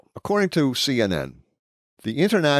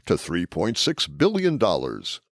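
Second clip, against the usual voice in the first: announcer voice. Shown as a demonstration. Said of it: "This is my announcer voice".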